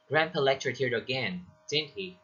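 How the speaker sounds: tag question seeking confirmation, "again" falling; falling intonation. Shown as a demonstration. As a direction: let "again" fall, then add "didn't he". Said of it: "falls towards the end".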